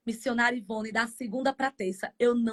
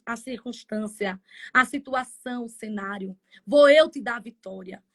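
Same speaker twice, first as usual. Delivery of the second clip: lower, firm, reassuring divine voice; voice of God; 4 semitones lower, 5 dB louder than usual. Retold or imitated. Believer retelling what God told her, calm and lower. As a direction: speak as the Lord promising victory. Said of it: "E Ele diz assim".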